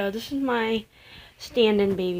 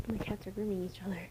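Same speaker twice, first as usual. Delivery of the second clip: whisper; 10 dB quieter than usual. Real, not acted. Aside while baby sleeps.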